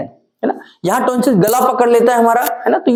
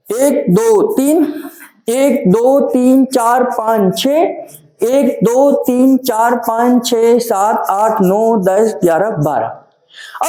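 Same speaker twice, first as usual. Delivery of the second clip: rhythmic counting; much slower than usual. Shown as a demonstration. Teacher demonstrates the Tone T count, measured rhythmic counting. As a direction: count steady, measured beats, slowing on the last pair. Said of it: "अगर हम tone T दे रहे होते".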